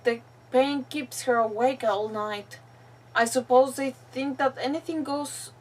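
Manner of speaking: deliberate, phrase-by-phrase reading; reading a captive's diary. Acted. Captive's farewell to the troop, deliberate read-aloud voice. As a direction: read the final words with long pauses.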